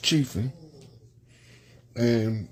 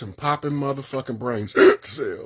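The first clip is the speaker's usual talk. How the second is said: with hiccups. Real, not acted. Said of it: "Excuse my hiccup".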